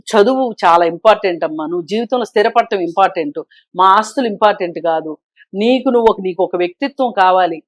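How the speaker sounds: lightly acted calm parent, a little soft; gentle parental advice. Parent advising a daughter on studies and settling down, gently. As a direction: counsel your child gently, without scolding. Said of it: "నెమ్మదిగా మాట్లాడండి".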